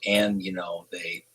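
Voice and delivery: low, soft, unhurried; subdued, measured lead-up; Lynn's very calm voice. Retold or imitated. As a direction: imitate a calm caller, withholding the news. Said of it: "It was a very calm voice".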